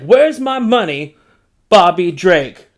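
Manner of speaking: mock pimp. Acting Kazar slapping Bobby.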